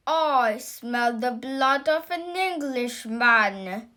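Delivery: giant's strange voice, menacing. Acted. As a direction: let the giant sniff out his prey. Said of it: "It shouted loud".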